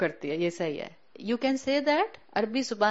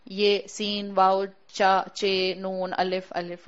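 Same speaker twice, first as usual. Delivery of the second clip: naming each letter separately, halting; slow choppy spelling-out of letters; slower than usual. Shown as a demonstration. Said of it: "मुझे सोचना नहीं है ऐसे".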